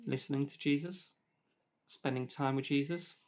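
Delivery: talking with a mouth full of grapes; chewing while speaking. Real, not acted. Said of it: "I know it's bad to talk with your mouth full".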